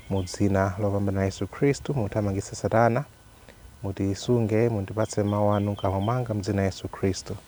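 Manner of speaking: quick, even-toned opening prayer; spoken prayer. Real, not acted. Host praying for the viewers before the talk, spoken prayer. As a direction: pray in a steady, subdued flow.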